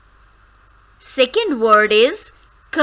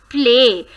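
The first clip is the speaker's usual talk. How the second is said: Play, hit it; stressed syllable; 4 dB louder than usual. Shown as a demonstration. Teacher isolating play, the stressed syllable. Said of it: "Stress किस पे आ रहा है".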